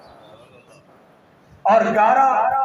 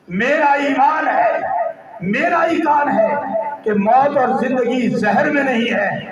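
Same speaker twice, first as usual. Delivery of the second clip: raised, ringing declaration of faith; forceful preacher quoting a believer's creed; impassioned preaching; 2 semitones higher than usual. Acted. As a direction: proclaim it with full conviction. Preacher voices Umar's declaration of faith.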